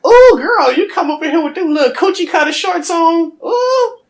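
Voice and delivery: mock a disapproving grandmother; judgy grandma. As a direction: grandmother teasing the girlfriend about her shorts. Grandma judging girlfriend's shorts.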